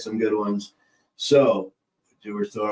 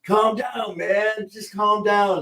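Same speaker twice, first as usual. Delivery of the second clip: much higher put-on soothing voice; imitating Cheech calming; 10 semitones higher, slower than usual. Retelling Cheech calming his panicking friend, higher mock voice. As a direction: do the buddy telling him to chill, pitched up. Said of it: "He goes".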